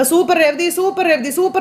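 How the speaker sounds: high, rising shouts of praise; excited cheering. Retold or imitated. Husband leaping up to cheer his wife's garland, high and thrilled. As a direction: cheer like a proud fan. Sachi jumps up applauding Revathi.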